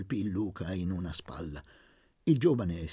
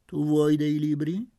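changed tone; 4 semitones higher, 5 dB louder than usual. A narrator's reading. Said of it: "Don Benedetto cambiò tono".

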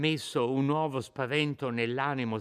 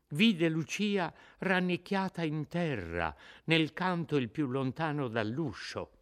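ordinary delivery, nothing marked

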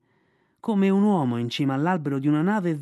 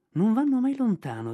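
sneering; 7 semitones higher than usual. Acted. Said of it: "disse sogghignando".

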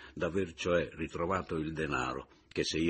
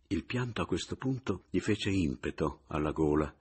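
plain reading voice

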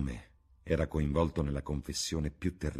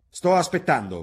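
sharp, much higher and louder; hard and clear; 13 semitones higher, 11 dB louder than usual. Acted. Dorian demanding an answer, hard and loud. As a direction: snap it out, impatient. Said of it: "con voce chiara e dura".

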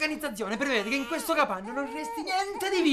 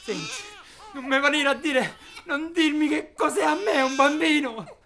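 tearful pleading; 4 semitones higher, 4 dB louder than usual. Acted. Husband breaking down, arguing.

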